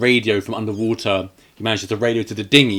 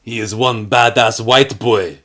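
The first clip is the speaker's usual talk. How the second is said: slow mock tough drawl; slower than usual. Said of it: "Chato's got to say".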